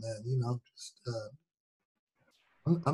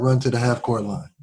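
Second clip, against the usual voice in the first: ordinary talk, nothing marked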